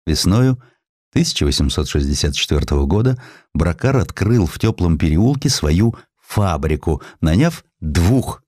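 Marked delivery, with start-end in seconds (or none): none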